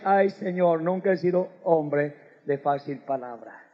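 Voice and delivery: a hint of a timid Moses pleading; mock meek excuse. Preacher mimicking Moses sighing an excuse before God.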